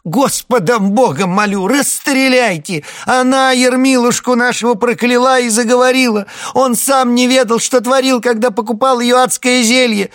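high, loud desperate plea; frantic begging. Acted. Wife on her knees begs the captain. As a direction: plead on your knees, crying out.

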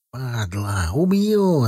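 angry shout, voice jumping up. A narrator's reading. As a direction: yell a furious threat. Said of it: "закричал Серый".

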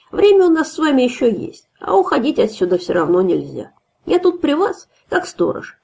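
boastful drunk watchman, lightly voiced; drunk host. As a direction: play the swaggering drunk guard. Drunk host talks to captives.

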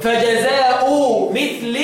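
"فجزاء" ending in plain -u, "مثل" ending -i; no tanween, kasra. Shown as a demonstration. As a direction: recite fajazaa'u, then mithli for "فجزاء مثل". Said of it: "بدون تنوين والجر".

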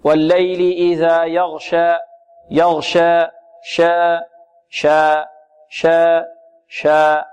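slow chanted والليل إذا يغشى with شا kept open; unreduced long a. Shown as a demonstration. Teacher drilling students against reducing the vowel, open long a. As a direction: hold شا as a pure a, not tilted toward e. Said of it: "كذلك نحذر من تقليلها".

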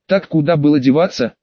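ordinary delivery

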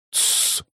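sharp unvoiced shush; hushing shush. A narrator's reading. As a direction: hush everyone with a hiss. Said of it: "шикнул Элрик".

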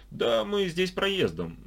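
high and slow, full of doubt; distrustful. A narrator's reading. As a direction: keep her at arm's length. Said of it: "с недоверием ответил Алик".

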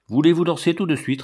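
put-on little girl snapping an order at the bear; stamping command. A narrator's reading. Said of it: "répéta l'enfant en tapant du pied".

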